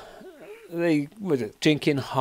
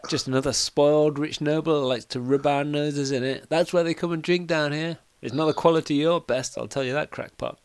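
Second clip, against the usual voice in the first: lightly voiced higher-pitched barmaid; a pub barmaid having a dig; slightly raised pitch, tavern gossip; barmaid chipping in; 4 semitones higher than usual. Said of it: "kind of barmaid behind goes".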